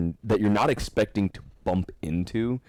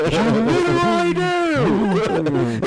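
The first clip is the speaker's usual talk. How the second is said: mock Australian accent; 7 dB louder, much slower than usual. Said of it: "doing a stupid Australian accent".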